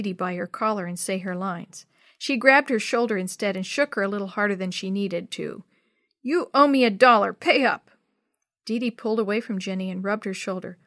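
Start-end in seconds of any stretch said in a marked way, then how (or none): 6.2-7.9 loud, sharp demand for the money; angry demand. Acted. Jenny demanding a dollar from Dee Dee, loud and angry. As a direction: shove the words at her. Angry girl in class play.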